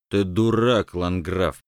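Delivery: пьяный голос с иканием; сказать пьяно, икнув; пьяно с икотой. Acted. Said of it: "пьяно икнул предсказатель". (пьяно с икотой)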